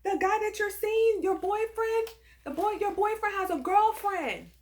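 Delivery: put-on high, pleading Hispanic-accented voice; crying out, Hispanic accent. Girl begging a stranger not to hang up, high Hispanic accent. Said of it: "she cries out in a Hispanic accent".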